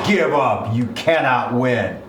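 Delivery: lightly voiced booming ring, slowing at the end; hammed-up ominous proclamation, measured ending; a touch of a booming disembodied voice. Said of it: "this booming voice comes out".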